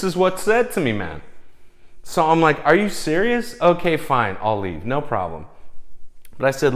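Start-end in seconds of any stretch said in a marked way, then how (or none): 2.7-5.5 high, loud, incredulous giving in; retold exasperated disbelief. Date being thrown out to woman, exasperated disbelief. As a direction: act out being stunned, then conceding.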